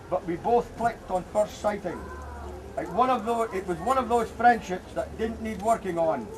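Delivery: measured read-aloud tribute with deliberate pauses; memorial speech reading. Real, not acted. Local man reading an absent friend's memorial speech to Bon, measured tribute. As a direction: read it out as a formal eulogy, phrase by phrase.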